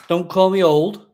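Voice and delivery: mock protest. Real, not acted. Joking protest to chat.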